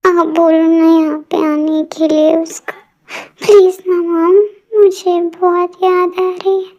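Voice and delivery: tearful pleading, voice catching; crying plea. Acted. Daughter crying to her mother, begging her to call a singer, tearful. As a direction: beg her mother through tears.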